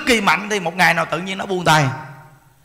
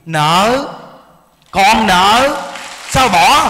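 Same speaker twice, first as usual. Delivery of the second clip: louder emphatic declaration of debt; emphatic call; 8 dB louder, much slower than usual. Real, not acted. Preacher calls out to the congregation, loud and emphatic. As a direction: ring out the word like a verdict.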